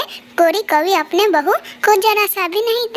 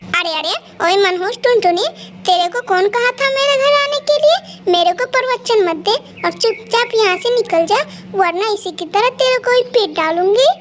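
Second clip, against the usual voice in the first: harsh bossy mother-in-law ordering her out; mild mock rage of a cruel mother-in-law; scolding mother-in-law; 2 semitones higher than usual. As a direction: bark orders at the new bride. Mother-in-law drives auntie off.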